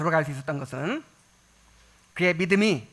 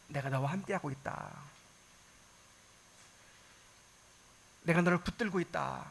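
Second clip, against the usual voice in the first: tender reassurance; 3 semitones lower, 7 dB quieter than usual. Acted. God's comforting words voiced.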